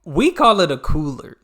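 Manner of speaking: loud, laughing protest; cracking up mid-sentence. Real, not acted. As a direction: laugh it out in disbelief. Laughing at the word esky.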